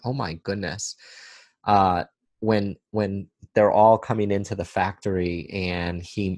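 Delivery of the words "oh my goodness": ordinary talk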